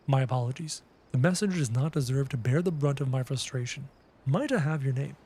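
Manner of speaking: a hint of a formal craftsman; lightly acted game character, not far from own voice; lightly voiced NPC. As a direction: read the game character's lines, a touch stately. Reads NPC dialogue aloud.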